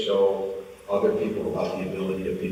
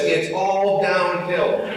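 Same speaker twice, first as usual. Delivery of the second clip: teasing; 9 semitones higher, much slower than usual. Retold or imitated. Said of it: "she says".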